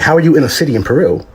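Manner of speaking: usual speaking voice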